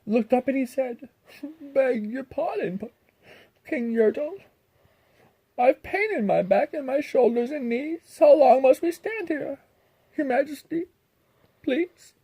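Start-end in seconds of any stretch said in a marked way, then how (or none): 1.6-12.1 timid pleading turtle. Acted. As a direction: ask the king meekly from under the pile. Mac pleading from below.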